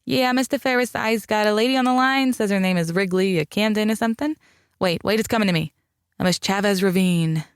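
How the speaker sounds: a jokey fake Brooklyn switchboard operator; bad Brooklyn accent. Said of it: "She put on a bad Brooklyn accent".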